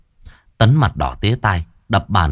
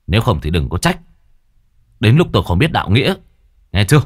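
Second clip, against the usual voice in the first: gritted warning; faster than usual. Acted. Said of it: "Tấn gằn giọng".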